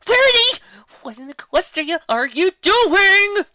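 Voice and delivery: high, loud shout of alarm; alarmed call. A narrator's reading. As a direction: cry out to stop her. Twilight calls out in alarm.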